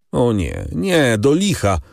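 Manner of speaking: high, slowed, indignant outcry; a lightly voiced young man's protest; exclaiming. A narrator's reading. Albert rejecting Venice, high, slow, indignant exclamation. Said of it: "zawołał Albert".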